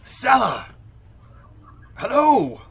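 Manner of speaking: high, hushed holler; whisper shouting. Acted. Hailing a friend across the dark road, whisper-shouted. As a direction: call out as if trying to be secret, but loudly. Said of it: "and he's whisper shouting".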